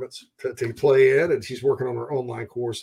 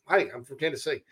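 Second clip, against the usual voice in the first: put-on nasal Tennessee accent; 4 dB quieter than usual. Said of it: "Tennessee people is a little more nasal".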